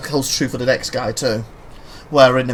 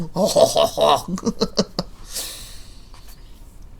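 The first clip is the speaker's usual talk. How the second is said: Pepe Le Pew laugh. Retold or imitated. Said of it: "Pepe Pew Pew laugh".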